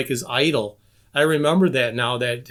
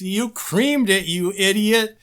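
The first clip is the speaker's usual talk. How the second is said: slow, higher mock-outraged scolding; retold yell; 4 semitones higher, slower than usual. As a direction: drag out the imitated indignation. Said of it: "he yelled at Igor".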